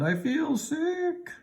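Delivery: sick moan. A narrator's reading. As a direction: moan it out like your stomach is turning. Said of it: "Eric moaned".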